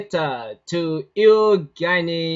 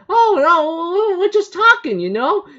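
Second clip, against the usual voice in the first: much higher panicked protest; flustered denial; 9 semitones higher than usual. Retold or imitated. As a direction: stammer it out in a nervous fluster. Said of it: "Kazu's like".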